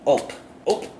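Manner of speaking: ope said as a quick surprised little grunt; ope exclamation. Shown as a demonstration. Vlogger demonstrating the Minnesota ope, quick surprised blurt. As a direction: blurt Ope like bumping into someone. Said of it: "Ope is the sound that we make".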